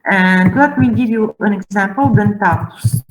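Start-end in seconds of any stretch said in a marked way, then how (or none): 2.1-3.0 "dentatus" with the accent on TA; stress on TA. Shown as a demonstration. Teacher giving an example of the atus suffix, stress on TA. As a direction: hit the middle syllable of "dentatus". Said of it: "then the accent is there".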